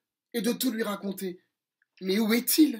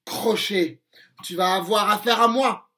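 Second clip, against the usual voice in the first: défi héroïque; 5 dB louder than usual. Acted. Peter défie Crochet.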